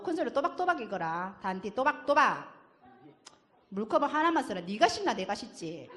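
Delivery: put-on loud Busan dad scolding the child nonstop; nagging dad. Father nagging his child about chores, scolding loudly. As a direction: rattle off the chores like a fed-up father.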